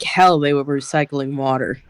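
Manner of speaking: put-on light German accent, scoffing. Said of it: "I say that in a German accent".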